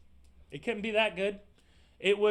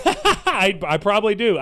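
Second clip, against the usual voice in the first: laughing; 5 dB louder, slower than usual. Real, not acted. Laughing admission.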